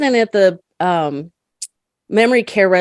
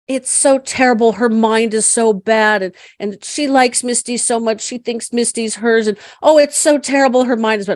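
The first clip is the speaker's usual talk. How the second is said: soothing repetition; 3 semitones higher than usual. Retold or imitated. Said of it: "I just kept saying".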